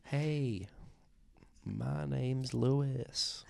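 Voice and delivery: put-on high, very slow little-boy voice; put-on high child's voice. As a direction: draw it out like a small boy. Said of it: "I sound like that little boy".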